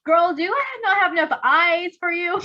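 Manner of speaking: a touch of sass, lightly voiced; lightly sassy girl talk. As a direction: tease the friend with mild sass. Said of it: "that level of sass".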